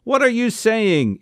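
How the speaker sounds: mock-shout it in mid-argument; mild shout. A narrator's reading. Uncle challenging his relative in an argument, mildly shouted. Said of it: "Izzy shouted".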